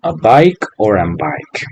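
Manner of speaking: A bike or an bike, slowly, with bike drawn out; slow and clear, weighing "A bike" against "an bike"; quiz-style slow contrast; slow article choice. Shown as a demonstration. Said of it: "¿qué artículo utilizo?".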